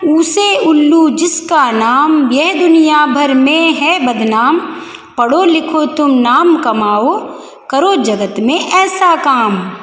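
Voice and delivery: put-on slow, measured children's rhyme; rhyme recitation. Teacher reading the book's rhyme to pupils, slow recitation. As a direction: read it out slowly, line by line.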